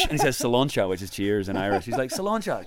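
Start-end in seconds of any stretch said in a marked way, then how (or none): 0.4-0.9 raised, loud cheers; hearty toast. Retold or imitated. Consul toasting his Irish visitor, hearty. 2.1-2.6 high-pitched cheery toast; hearty toast. Retold or imitated. Consul raising Guinness with the Irishman, cheery.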